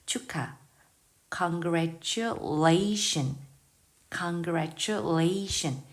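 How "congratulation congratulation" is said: "congratulation" very slow, each syllable spaced, stress on the late "la"; slow stressed model. Shown as a demonstration. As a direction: drag out "congratulation" and hit "la" near the end. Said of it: "아주 뒤에 강세가 있으니까". ("congratulation"을 아주 천천히, 뒤 강세를 또렷이)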